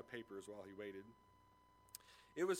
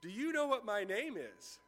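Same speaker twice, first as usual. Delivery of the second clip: high, louder, teasing; mocking question; 8 semitones higher, 6 dB louder than usual. A narrator's reading. Student mocking the professor with his question. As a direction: needle him with the question. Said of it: "rephrased the question mockingly".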